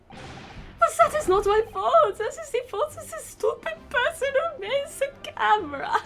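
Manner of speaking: put-on a boy sobbing out his excuse; crying with an accent. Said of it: "he's crying in accent".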